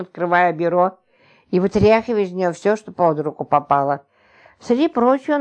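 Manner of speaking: plain reading voice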